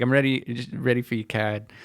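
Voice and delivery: hint of imitated Boston speech; slight Bostonian accent. Repeating the coworker's line, slight Bostonian accent. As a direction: quote it with a light Bostonian R-drop. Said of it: "in a slight Bostonian accent".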